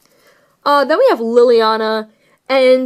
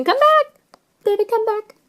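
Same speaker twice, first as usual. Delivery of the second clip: very high-pitched mock plea; high little voice coaxing something to return; playful calling out; 12 semitones higher than usual. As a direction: call it back in a high, pleading squeak. Calls after the fallen card.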